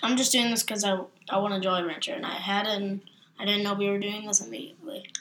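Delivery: talking around hard candy; candy in mouth, words a bit thick; mouth full. Real, not acted. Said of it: "you have a Jolly Rancher in your mouth".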